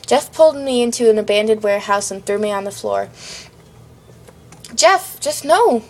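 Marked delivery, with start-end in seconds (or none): 4.7-5.8 high, drawn-out cry of refusal; scream. A narrator's reading. Victim thrown on the floor pleads with Jeff, screaming. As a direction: cry out slowly, pitch leaping up. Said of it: "I screamed".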